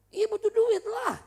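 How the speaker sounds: loud, high, drawn-out comic cry; high-pitched shouted answer; exasperated outburst. Acted. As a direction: blurt it out in mock exasperation. Comic outburst answering the repeated question.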